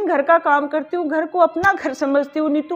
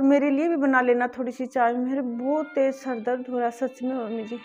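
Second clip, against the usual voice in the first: weak plea; 3 semitones lower, 7 dB quieter than usual. Acted. Sick daughter-in-law pleads.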